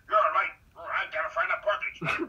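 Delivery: put-on high, loud exasperated old man; scolding father-in-law. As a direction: chew him out for being late. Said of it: "he's like".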